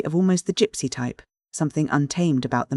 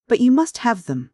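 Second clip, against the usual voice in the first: raised, louder and higher, pressing the point; forceful insistence; 8 semitones higher, 4 dB louder than usual. A narrator's reading. Passenger forcing brotherhood on the driver, loud insistent voice. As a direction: bear down on him like a bully.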